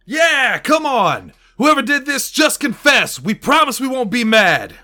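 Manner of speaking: mock outrage. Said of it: "speaks up, joining the angry crowd".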